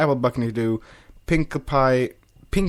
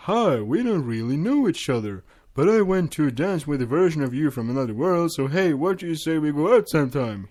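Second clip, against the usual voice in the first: mock awkward ask-out; 5 semitones higher, 3 dB louder than usual. Twilight imagines awkward pitch to Flash.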